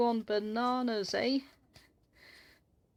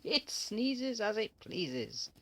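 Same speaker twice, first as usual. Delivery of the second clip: slow sing-song rhyme; slower than usual. Real, not acted.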